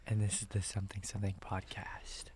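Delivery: hushed unvoiced whisper; breathy ASMR intro whisper. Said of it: "do A S M R the entire time".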